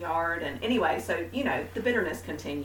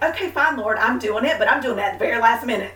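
grudging giving in; 3 semitones higher, 8 dB louder, faster than usual. Retold or imitated. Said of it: "But it was like".

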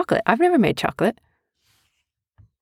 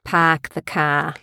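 slow Boston "Park the car", no r; Boston accent; 2 semitones lower, much slower than usual. Shown as a demonstration. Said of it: "No, park".

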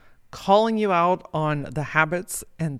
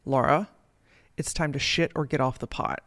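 a hint of a stern, calm mentor; stern but calm; 2 semitones lower than usual. Mentor at breakfast calling her out, lightly stern and calm. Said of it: "And she said very sternly, but very calmly".

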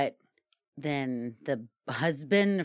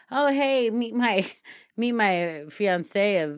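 mock cheery intro; 7 semitones higher, 6 dB louder, much slower than usual. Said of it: "They're like".

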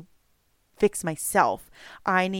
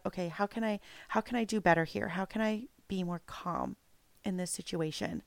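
quiet inner question; 7 dB quieter than usual. Retold or imitated. Thinking to herself at bedtime.

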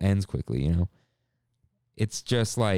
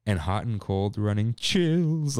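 voice cracking; slower than usual. Retold or imitated. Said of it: "Like, his voice cracks".

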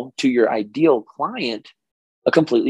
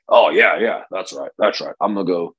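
Oklahoma voice; 3 semitones lower than usual. Retold or imitated. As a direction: tease the Oklahoma accent lightly. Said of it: "this is my Oklahoma voice".

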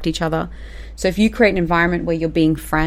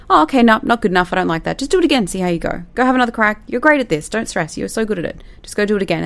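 higher, breezy and easygoing; light reassurance; 4 semitones higher, faster than usual. Shown as a demonstration. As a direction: brush the mistake off kindly. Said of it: "You just go".

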